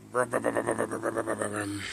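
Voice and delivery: loose rumbling car engine noise imitated; engine imitation. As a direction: make the old car go brum brum. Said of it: "sound almost like a motorcycle".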